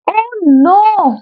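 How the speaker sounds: sudden realisation of a slip; dismayed oh no. Real, not acted.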